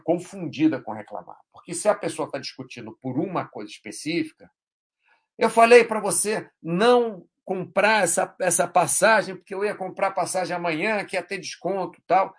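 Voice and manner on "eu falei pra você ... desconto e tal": mock argument. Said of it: "Ela está só brigando".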